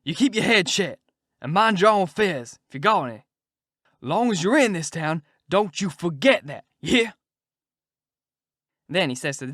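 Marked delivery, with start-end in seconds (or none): 0.0-7.1 much louder and higher, ripping into him; furious outburst. Acted. The king turning on Huck to shut him up, furious shout. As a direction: bite his head off. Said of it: "The king whirls on me and rips out".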